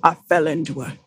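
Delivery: lightly voiced old Southern storyteller; a hint of an old man spinning a yarn. Reading the poem to friends like a lightly voiced old Southern man. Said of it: "devolved into, like, an old man".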